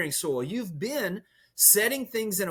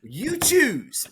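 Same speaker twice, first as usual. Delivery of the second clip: laughing punchline; 6 semitones higher, 5 dB louder, much slower than usual. Real, not acted.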